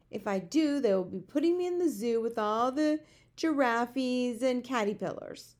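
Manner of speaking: animated giant voice, fretting; storybook giant, worried. A narrator's reading. Giant fears the zoo, worried protest.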